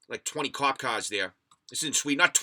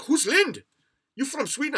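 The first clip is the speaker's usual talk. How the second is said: mock cop question; 5 dB louder than usual. Retelling cops' questions again.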